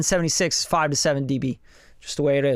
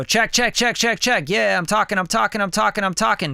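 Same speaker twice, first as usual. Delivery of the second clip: level test talk; 5 semitones higher than usual. Shown as a demonstration. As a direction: keep talking to set the level.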